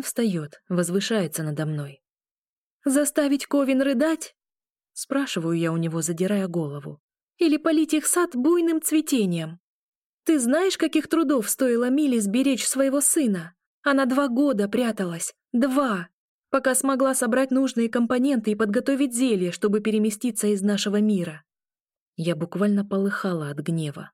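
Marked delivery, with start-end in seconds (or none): 2.8-4.4 high, loud bitter retort; a high, loud, sarcastic retort; angry. A narrator's reading. Angry tirade at werewolf. 7.4-21.4 angry. A narrator's reading. Angry tirade at werewolf.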